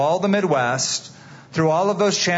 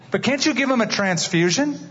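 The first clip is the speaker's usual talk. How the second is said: higher, pleading desperate question; desperate plea; 7 semitones higher than usual. Acted. Father begging the doctor to spare his son, higher desperate plea. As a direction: beg the doctor for another way.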